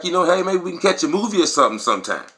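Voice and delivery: flirty cheerleader. Retold or imitated. Cheerleader asking the jock out, quick, light and flirty. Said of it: "she's like".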